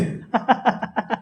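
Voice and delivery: short staged chuckle; demonstrated laugh. Shown as a demonstration. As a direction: show laughter with a light "ha-ha-ha". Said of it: "पाचवं आहे हास्य".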